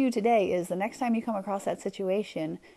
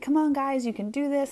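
higher-pitched coaxing pep talk; exasperated urging; 5 semitones higher than usual. Retold or imitated. Coach thinking at kids who aren't trying, exasperated urging. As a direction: urge them on, pitched up.

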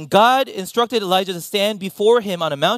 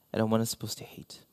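hushed whisper; 8 semitones lower, 10 dB quieter than usual. Acted. Pastor to congregation, whispering the word hate.

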